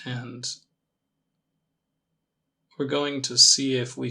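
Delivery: calm meditation guide, long pauses between phrases; measured, gently leading meditation voice; guided meditation. Acted. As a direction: ease them into it with unhurried, spaced-out instructions.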